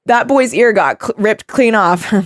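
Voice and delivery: imitating a cop's offhand, tossed-aside line; thrown away. Friend retelling the cop's funniest movie line, thrown away. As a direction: toss off the apology as an afterthought. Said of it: "like he tossed it aside".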